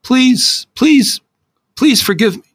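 high, begging, near tears; pleading for forgiveness, voice cracking high; tearful apology. Acted. Teen begging his friend's forgiveness, high and tearful.

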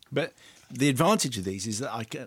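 talking round a throat sweet; sweet in mouth. Real, not acted. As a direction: speak with a lozenge in mouth. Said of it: "I've got one in my mouth now".

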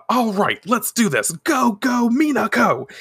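high-pitched, eager self-cheer; acted pep talk. Minako cheering herself on in thought, excited rally. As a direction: psych yourself up, voice climbing.

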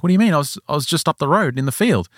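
quickening acted-out bafflement; baffled protest. Father answering the boys' accusation, baffled and defensive.

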